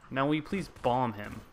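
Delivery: pointed request with "please" stressed; emphasis on please. Real, not acted. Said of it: "Just for emphasis".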